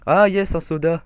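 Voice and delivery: très aigu et fort, tout content; ravi. Real, not acted. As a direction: crie de joie en trouvant le soda. Trouve un soda en jouant. (ravi de trouver un soda)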